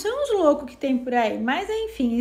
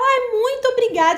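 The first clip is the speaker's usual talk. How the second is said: higher and louder, beaming thanks; delighted thanks; 8 semitones higher, 5 dB louder than usual. Shown as a demonstration. Thanking someone for a present, higher delighted gush. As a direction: gush a happy thank-you.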